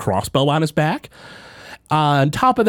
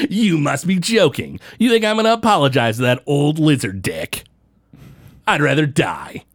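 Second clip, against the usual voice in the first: lightly voiced tough guy Flack; 3 semitones higher than usual.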